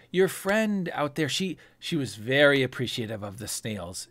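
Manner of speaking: lightly voiced fussing server; eager serving girl fussing over guests.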